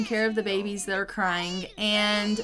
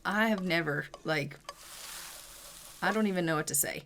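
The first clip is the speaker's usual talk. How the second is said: low, softer inner monologue; thinking to herself; 3 semitones lower, 6 dB quieter, faster than usual. Acted. Wife thinks to herself about her husband, quiet and at a loss. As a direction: trail off quietly as if lost for words. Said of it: "she's thinking to herself".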